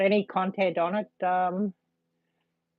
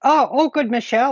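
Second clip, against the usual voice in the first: bright greeting; 6 semitones higher, 5 dB louder than usual. Real, not acted. Greeting a viewer warmly.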